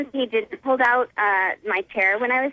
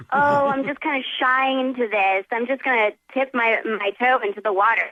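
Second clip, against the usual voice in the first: lightly mimicking a shy, hesitant suitor; mock his timid excuses; mocking timid dater. Woman mocking her coffee date's shyness, lightly mimicking him. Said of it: "Don't be like".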